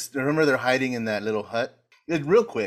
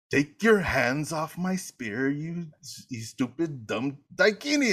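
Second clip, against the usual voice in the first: retold indignant insult; 5 semitones higher, slower than usual. Acted angry movie insult over spear.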